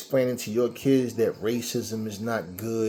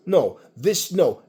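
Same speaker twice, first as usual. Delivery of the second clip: usual speaking voice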